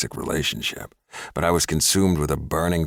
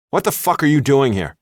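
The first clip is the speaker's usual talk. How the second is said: loud, high, furious demand; spat out; 9 semitones higher, 7 dB louder than usual. A narrator's reading. Cornered woman snarling at her stalker ex. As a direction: spit the words at him. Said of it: "I spit out".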